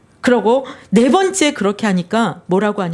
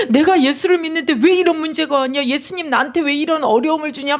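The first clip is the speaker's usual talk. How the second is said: raised, half-laughing complaint; acting out an acquaintance protesting to God; complaining protest; 5 semitones higher than usual. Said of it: "저한테 막 따지는 거예요". (하나님께 따지듯 높아진 목소리로)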